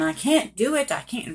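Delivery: mildly acted panic, starting high then dropping; mock-hysterical refusal, lightly done; imitated hysterical woman. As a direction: retell her panicked protest. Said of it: "she's all hysterical and saying".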